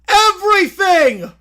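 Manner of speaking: loud, slow, high wail; anguished shout. Acted. Boris answers the arena's question in a loud, slow, despairing wail. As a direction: throw the word out in despair.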